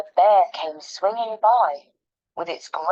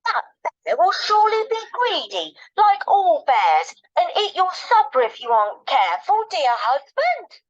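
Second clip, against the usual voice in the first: much higher, laughing wife; 10 semitones higher, 4 dB louder than usual. Acted. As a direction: tease him in a high voice. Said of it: "his wife said".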